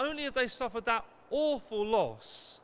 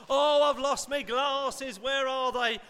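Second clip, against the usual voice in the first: mock lament; 3 semitones higher, 6 dB louder, slower than usual. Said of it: "hearing that a lot more".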